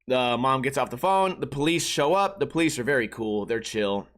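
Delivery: usual speaking voice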